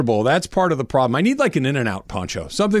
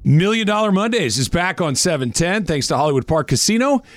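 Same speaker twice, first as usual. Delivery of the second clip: upbeat promo read; radio contest promo; 3 semitones higher than usual. Acted. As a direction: sell it like a radio spot. Host reads contest promo.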